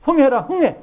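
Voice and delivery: high, loud chant of 흥해; elders' nose-blowing cheer. Retold or imitated. Elder cheering a child blowing its nose, high and loud. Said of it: "애들 코 풀 때 어떻게 했나요".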